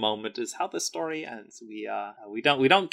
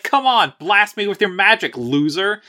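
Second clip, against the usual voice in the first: higher, mock-teasing dare; goading taunt; 9 semitones higher, 6 dB louder than usual. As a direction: egg her on playfully, pitched up. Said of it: "And Nasari's like".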